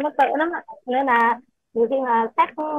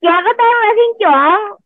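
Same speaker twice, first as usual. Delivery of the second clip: loud; 9 semitones higher, 6 dB louder, slower than usual. Real, not acted. Child answering teacher loudly.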